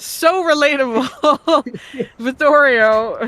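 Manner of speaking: high, loud, laughing through the words. Real, not acted. Game master amused by a player's remark, laughing. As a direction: say it while cracking up.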